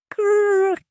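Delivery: high, loud cry of the name; a sudden high shout. Acted. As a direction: yell it out sharply.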